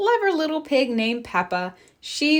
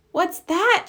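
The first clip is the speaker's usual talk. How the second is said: surprised; 9 semitones higher, 3 dB louder than usual. A narrator's reading. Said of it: "she asked".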